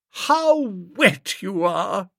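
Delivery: put-on high, lilting society girl; fond girl teasing Bertie; Honoria's voice. A narrator's reading. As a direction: raise the pitch for the young lady.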